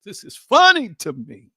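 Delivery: mock laughing disbelief. Doubting inner voice laughing off God's promise, laughing. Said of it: "the voice in you keeps laughing".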